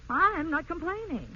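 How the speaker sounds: wife hits back in a quarrel, slow and firm; defensive retort. Acted. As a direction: bristle and deny it slowly.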